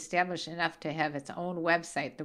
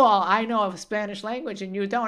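mockingly boastful, starting louder and easing off; mock pretentious; 6 dB louder than usual. Mother teasing son about texting Spanish, mock pretentious. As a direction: show off like an insufferable know-it-all, in mockery. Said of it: "you're being pretentious".

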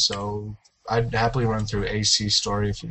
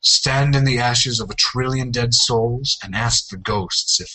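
movie trailer voice. Pretend. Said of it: "read them out loud in an epic voice".

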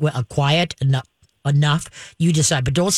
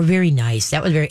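calm and steady. Shown as a demonstration. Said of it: "you're gonna be calm and steady".

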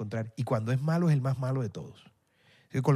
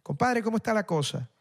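put-on La Guaira accent; 4 semitones higher than usual. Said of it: "La Guaira".

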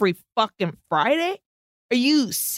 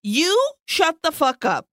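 higher, indignant snap; mock outburst; 4 semitones higher than usual. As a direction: fire back in defiance. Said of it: "And I was like".

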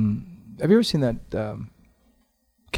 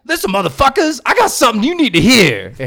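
much higher, louder furious yell; Luther anger translator; 13 semitones higher, 10 dB louder than usual. Retold or imitated. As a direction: explode with rage, laughing through it. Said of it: "And Luther would be like".

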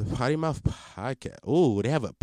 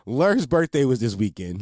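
laughing; 3 dB louder than usual. Real, not acted. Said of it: "repeats it composed".

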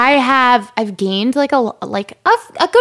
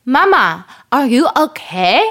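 put-on child's German-tinged voice, higher and drawn out; little German tourist; 4 semitones higher, slower than usual. Mom imitating her son checking on her, German-accented child voice. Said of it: "my little German Taurus".

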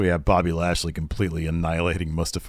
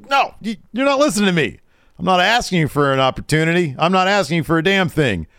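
heated retort; 9 semitones higher, 3 dB louder than usual. Retold or imitated. Retold demand at Lashley.

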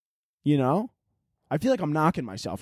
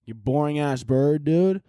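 slow yell, much higher; annoyed yell; 3 semitones higher, slower than usual. Pretend. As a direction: shout at the boring bird. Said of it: "It's like".

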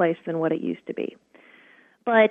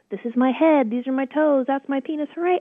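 higher, sing-song playful naming; cheerful bathtub game; 6 semitones higher than usual. Retold or imitated. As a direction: make it a light game for a toddler. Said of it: "that's a bathtub game".

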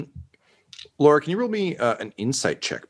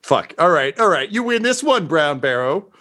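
flustered villain; 4 semitones higher than usual. Acted. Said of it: "He's like".

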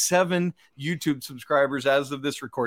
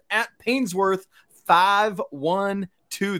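Georgia accent; 4 semitones higher, slower than usual. Real, not acted. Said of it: "That was my Georgia accent coming out".

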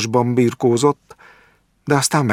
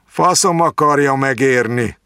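higher, irritated dismissal; angry; 6 semitones higher, 3 dB louder than usual. A narrator's reading. Jáki waving off the doctor's advice angrily. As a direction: brush it off with a curse, annoyed. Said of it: "legyintett mérgesen".

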